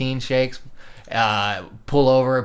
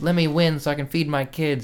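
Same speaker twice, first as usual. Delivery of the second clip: mock-pleading, begging tone; 3 semitones higher than usual. Complaining about wrestling drama, retelling how a wrestler begged to win, mock-pleading. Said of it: "Brian Kendrick like pleaded".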